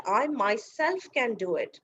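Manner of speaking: slow, deliberate weight on "I myself"; "I myself" stressed, unhurried teacher's example. Shown as a demonstration. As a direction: lean on "I myself", drawing it out. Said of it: "I'm just putting stress".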